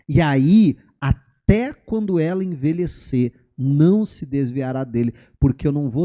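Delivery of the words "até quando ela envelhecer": ordinary talk, nothing marked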